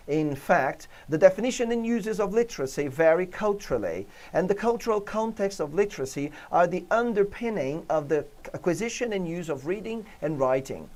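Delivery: measured English read-aloud with rising and falling melody; expressive English reading. Shown as a demonstration. Teacher finishing the English passage for students, intonation marked. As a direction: carry the meaning with the tune of English. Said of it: "A minha entonação força o entendimento do texto".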